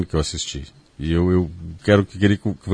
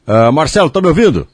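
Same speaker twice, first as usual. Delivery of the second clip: raised and higher, calling down a bad line; to someone hard of hearing; 5 semitones higher, 4 dB louder than usual. Real, not acted. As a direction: call out to check they hear you. Checking the line is back.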